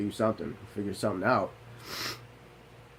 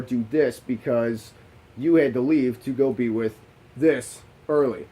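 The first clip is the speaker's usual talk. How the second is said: loud insisting; 3 semitones higher, 4 dB louder than usual. Retold or imitated. Insisting wife stay at reunion.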